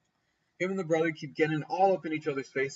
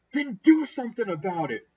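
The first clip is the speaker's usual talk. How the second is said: louder, higher-pitched mock dare; retold angry challenge; 6 semitones higher, 6 dB louder than usual. Friend throws hat down before the brother, mock angry dare. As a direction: imitate someone throwing down a challenge.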